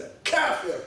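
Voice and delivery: joking demo of a Salafi accent; emphatic Salafi accent. Shown as a demonstration. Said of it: "my most emphatic Salafi accent".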